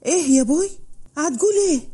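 rising, shocked question. Acted. Raad hears his father's marriage order, shocked and rising. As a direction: react as if you misheard, rising in disbelief. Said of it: "اتصدم رعد".

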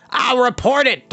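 high, outraged dwarf cry; worked-up, spluttering protest; indignant cry. A narrator's reading. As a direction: threaten it in high-pitched indignation. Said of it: "Dolly cried".

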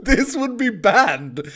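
slow laughing protest. Real, not acted. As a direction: laugh through the complaint, drawn out. Protesting his outfit, laughing.

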